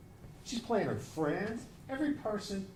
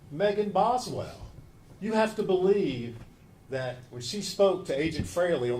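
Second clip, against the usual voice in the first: passionate closing argument; 3 dB louder than usual. Acted. Prosecutor presses the point.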